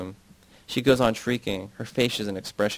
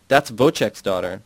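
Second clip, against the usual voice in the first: shout; 6 dB louder than usual. Retold or imitated. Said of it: "One of them shouted".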